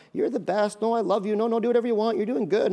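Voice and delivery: lightly acted doting reassurance; gentle, all-loving parent. Preacher acts a parent who won't confront, gentle coddling. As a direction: coddle the child, a touch of mock gentleness. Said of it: "you're just gentle, gentle, just love".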